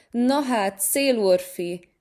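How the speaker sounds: cat calling out to the wind spirit; calling out loudly. A narrator's reading. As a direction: hail the wind to provoke him. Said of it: "kiáltotta hangosan Laci".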